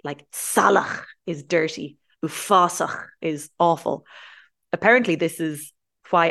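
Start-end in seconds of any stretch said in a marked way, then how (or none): 0.3-1.0 salach ending in a throaty "ch"; "salach" with the Irish guttural ending; throaty Irish ach. Shown as a demonstration. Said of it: "a lot of them end with ach". 2.2-3.1 ufasach ending in a throaty "ch"; "ufasach" with the Irish guttural ending; throaty Irish ach. Shown as a demonstration. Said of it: "a lot of them end with ach".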